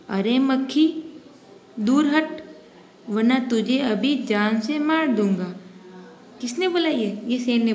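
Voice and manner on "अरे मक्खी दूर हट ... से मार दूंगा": lion roaring. Acted. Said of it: "वह दहाड़ा".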